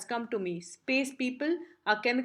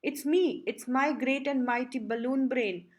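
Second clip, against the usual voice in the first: screaming. Acted. Think Tank recognising himself in the picture, mock screaming panic. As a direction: cry out in hammed-up panic. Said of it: "Think Tank screaming and holding his head".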